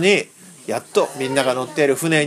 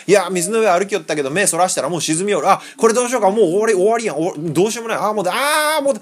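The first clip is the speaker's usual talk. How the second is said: mock panic; 3 semitones higher than usual. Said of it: "パニックって".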